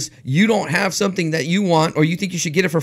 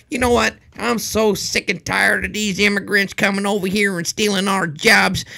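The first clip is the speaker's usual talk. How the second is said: mock redneck rant; 5 semitones higher than usual. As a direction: ham up a bigot ranting about immigrants. Mocking anti-immigrant rant voice.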